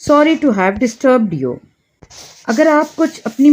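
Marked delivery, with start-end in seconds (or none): 0.1-1.6 very slow, every word laid out clearly; slow model phrase. Shown as a demonstration. Teacher slowly models an English apology for Hindi learners. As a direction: say it slowly so learners can repeat it. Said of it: "बोलिए आप मेरे साथ".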